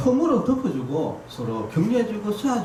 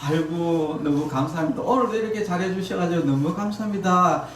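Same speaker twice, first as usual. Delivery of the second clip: grateful praise; 2 semitones higher than usual. Shown as a demonstration. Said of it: "이렇게 하지 말고".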